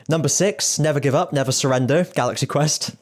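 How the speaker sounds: high rising number call; bingo caller. Shown as a demonstration. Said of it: "I'm, like, doing bingo calling".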